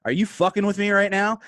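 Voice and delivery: half laughing at his own blunder; incredulous. Retold or imitated. Bodyguard realising he shooed off Kim, incredulous. Disbelief at the celebrity.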